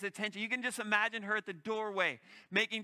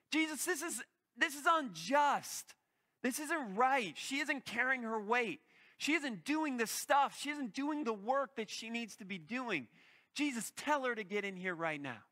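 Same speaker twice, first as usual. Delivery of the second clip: indignant complaint; 4 semitones higher than usual. Acted. Martha complains to Jesus.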